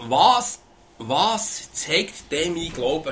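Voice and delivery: each word drawn out slowly and heavily; "was zeigt denn mein Glauben" stretched out slowly, leaning on "was"; slow, weighty question. Shown as a demonstration. Preacher reads out his own written question, slow and weighty. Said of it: "habe ich mir aufgeschrieben".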